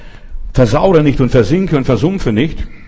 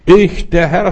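voice of God; 6 semitones higher, 4 dB louder, slower than usual. Acted. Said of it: "sagt hier mein Gott".

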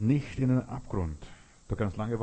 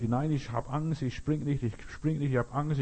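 higher-pitched scared boy, lightly acted; mock a frightened boy refusing to jump; raised pitch, mild retold panic; imitated frightened cries; 5 semitones higher than usual. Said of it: "und hat geschrien".

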